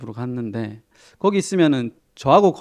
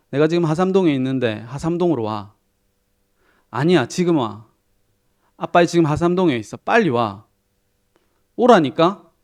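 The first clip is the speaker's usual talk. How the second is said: father barking into the phone, getting louder; a dad yelling down the phone, building to the last line; loud phone call; 5 dB louder than usual. Retold or imitated. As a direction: insist loudly that the son come now. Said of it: "너무 시끄럽게 통화를 하길래".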